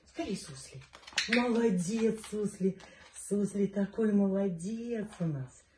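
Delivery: high-pitched doting praise; squeaky praising a dog. Real, not acted. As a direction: coo praise at the pup. Owner praising dog's begging trick. (писклявая похвала собаке)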